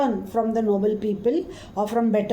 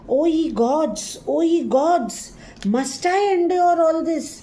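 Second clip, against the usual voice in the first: higher-pitched, aghast cry to the heavens; shocked disbelief; 6 semitones higher, slower than usual. Acted. Cassius answering Brutus's accusations, shocked and aghast. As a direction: act out stunned disbelief, voice lifting. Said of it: "So Cassius is shocked beyond belief".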